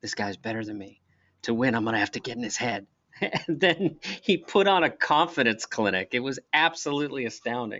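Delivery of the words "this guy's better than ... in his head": hushed, quiet, low-key aside. Recounting what a companion whispered during a pool game, retelling a quiet aside. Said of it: "real quietly says".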